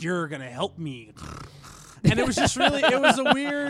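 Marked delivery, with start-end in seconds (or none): 0.0-1.1 snarling Joker imitation. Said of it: "You do that a little too well".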